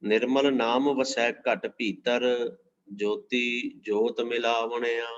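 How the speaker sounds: drawn-out, measured reading of a holy verse; slow devotional recitation. Acted. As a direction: intone each word of the verse with reverence. Recites scripture verse slowly.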